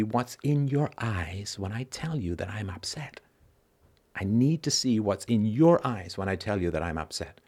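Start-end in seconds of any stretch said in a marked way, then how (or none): 0.0-3.2 whispered. Shown as a demonstration. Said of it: "whispered then repeated plainly".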